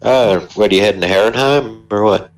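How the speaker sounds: put-on a touch of a southern good old boy asking around; southern accent. A traveler questioning the prisoner about his route, light southern accent. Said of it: "he's straight up gone southern".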